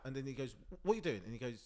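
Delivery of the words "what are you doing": higher, mildly raised scolding; mock telling-off from a dad; half-shouted parental challenge; imitated shouting dad. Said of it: "he starts shouting at his son".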